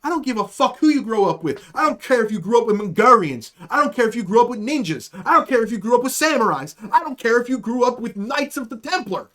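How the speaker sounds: acted-out indignant tirade, building in pitch; heated, emphatic retold rant; pissed-off rant. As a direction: pile up each line like a mock argument. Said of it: "I'm stewing. I'm pissed".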